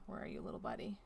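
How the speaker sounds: low coaxing murmur. Pretend. Player searching for a lost puzzle piece, low coaxing murmur.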